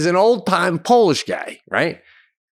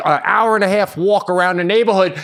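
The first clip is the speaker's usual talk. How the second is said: talking loud; 8 semitones higher, 3 dB louder than usual. Retold or imitated. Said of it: "I'm talking this loud".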